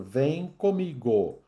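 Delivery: ordinary talk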